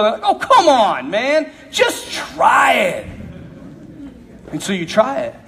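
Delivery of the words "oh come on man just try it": peer pressure coaxing. Acted. Peers pressuring a young man.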